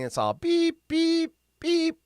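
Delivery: high mimicked call-waiting beeps; mock beeping. Imitating the call-waiting beep on his line, high. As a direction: beep it like a phone tone.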